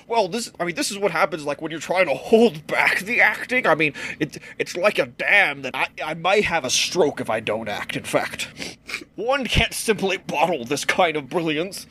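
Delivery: lightly voiced self-important thespian; a touch of stuffy actorly pomp; pompous actor. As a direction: hold forth with mock grandeur. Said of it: "if you're a great pompous actor".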